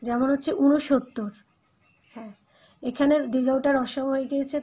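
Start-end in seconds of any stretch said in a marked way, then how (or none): 0.6-1.3 ঊনসত্তর said slowly with a short u, unoshotto; careful pronunciation. Shown as a demonstration. Teacher models ঊনসত্তর slowly for students. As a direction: draw out ঊনসত্তর clearly for the class. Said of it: "দীর্ঘাউটা রসাউতে পরিবর্তিত হয়ে যায়".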